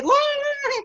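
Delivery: very high mock shriek; imitated girls' scream. Girls passing in the dark tunnel group, mock high-pitched scream. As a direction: mimic frightened girls shrieking as they pass. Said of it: "cewek-cewek yang lewat teriak-teriak".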